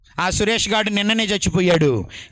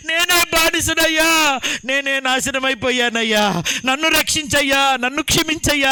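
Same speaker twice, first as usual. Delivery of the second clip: higher, imitating a shouted sobbing plea; retold crying plea; 4 semitones higher than usual. The drunk begs the preacher to save him, imitated sobbing shout. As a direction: beg for rescue and forgiveness, crying out. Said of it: "అని ఏడుస్తున్నాడు".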